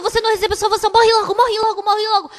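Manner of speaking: a hint of a tormenting demon urging death; demon's voice. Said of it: "esse demônio ficava falando".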